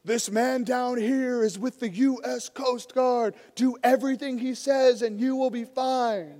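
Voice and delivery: a hint of a rescue pilot calling down a loudspeaker; megaphone announcement. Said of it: "over the megaphone says".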